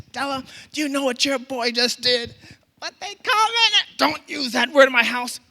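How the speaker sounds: high, loud scandalized mama; acted outrage. Mama phones boy's mother about his swearing, shrill outrage. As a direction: shriek the complaint in mock outrage, high and loud.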